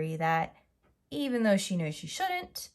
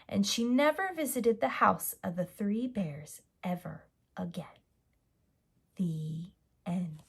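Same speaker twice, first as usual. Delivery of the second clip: storybook narration; 3 dB louder than usual. A narrator's reading. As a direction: tell the bedtime tale with energy, then settle. Reads a fairy tale ending.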